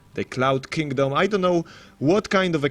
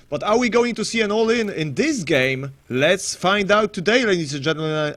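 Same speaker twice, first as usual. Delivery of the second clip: salesman bloke; 4 semitones higher than usual. Pretend. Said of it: "I sound like this bloke who's selling".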